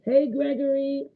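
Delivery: muffled, like from inside a kettle. Real, not acted. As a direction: sound boxed in and muffled. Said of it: "it sounds like you muffled".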